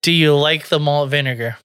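light mock English accent; English woman's accent. Shown as a demonstration. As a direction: play an English bird, lightly British. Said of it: "you're an English bird".

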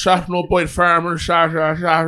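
slow, hammed-up Cork accent; mock Cork accent. Shown as a demonstration. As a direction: do a rough Cork farmer impression. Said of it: "We're gonna use Cork then".

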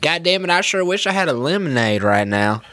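hick wishing out loud; redneck voice. Acted. Redneck first wish voiced.

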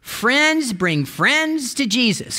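preacher's slow, emphatic refrain. Shown as a demonstration. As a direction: spell out the slogan slowly for the congregation. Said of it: "Can you say that with me?".

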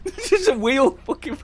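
high-pitched laughing words; cracking up mid-sentence. Real, not acted. Laughing at a clip.

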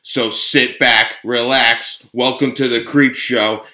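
hype show intro. Acted.

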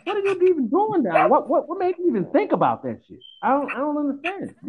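stunned, high disbelieving questions; can't believe what he's hearing; speechless stammer. Real, not acted. Stunned at the podcast news.

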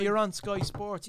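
a hint of sports presenter; Sky Sports presenter impression. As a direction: announce it like a TV anchor. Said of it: "Who was that guy?".

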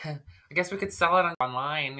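nervous laugh through words. Real, not acted. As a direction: laugh it out half despairing.

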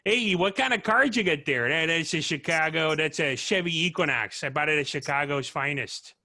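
a mild Chicago car-guy accent bragging about his Chevy Equinox. Shown as a demonstration. Showing friends his spark-word trick, mild Chicago accent. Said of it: "dialed into a Chicago accent".

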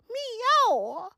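high, drawn-out meow; squeaky mock-roar meow; cat meow.

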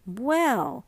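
a bright, lifted "Well"; brightly. Acted. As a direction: perk up on the word, cheerful. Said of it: "said Missus Morris brightly".

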